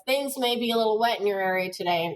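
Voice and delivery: quick, easy newscaster read; conversational read. Shown as a demonstration. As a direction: read it like chatting to viewers. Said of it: "it should sound, you know, kinda conversational".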